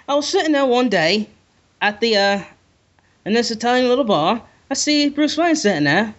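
accent attempt drifting into British; badly faked British accent, feeling for it; botched British-sounding accent. Podcaster tries telling a bar tale, botched British accent. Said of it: "it sounds way British more than".

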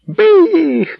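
very high, loud screamed order; frenzied yell. Acted. Steward screaming at his men, frenzied yell. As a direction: scream it out of control. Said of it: "кричав він несамовито".

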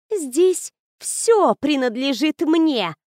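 slow, hissed ghostly claim; hissing ghost bride. Acted. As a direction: hiss it slowly, possessive. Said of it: "прошипела призрачная невеста".

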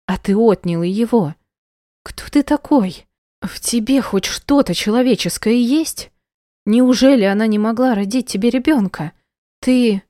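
put-on wife shrieking at husband who took her child; screaming accusations. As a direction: hurl every question at him.

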